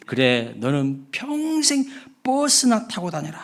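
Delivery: slow, mocking comeback; retort curse. Bus driver retorting to the rude passenger. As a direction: throw the curse right back, drawn out. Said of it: "이에 질세라 버스 기사가".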